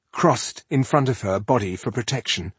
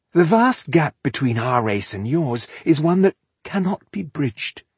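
lofty elf lecturing humans, pitched up; haughty elf; 6 semitones higher than usual. Acted. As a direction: pronounce on the inferior race from above.

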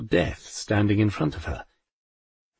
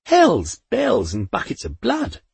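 thundering; 8 semitones higher than usual. A narrator's reading. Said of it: "Poldy thundered".

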